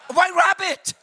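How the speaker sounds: loud, high, laughing exclamation; laughing punchline. Real, not acted. Preacher repeats the rabbit punchline, loud and laughing. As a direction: cry it out through a laugh.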